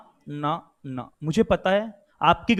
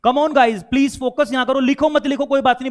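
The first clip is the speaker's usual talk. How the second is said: raised, louder appeal to the class; urging plea; 4 semitones higher, 4 dB louder than usual. Real, not acted. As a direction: urge the students to focus, pitched up. Urging class to focus on him.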